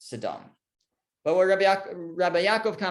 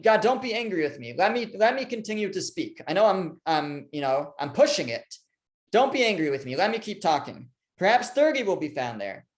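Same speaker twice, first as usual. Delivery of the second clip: mildly nervous plea; 4 semitones higher than usual. Retold or imitated. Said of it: "Abram's actually a little nervous now".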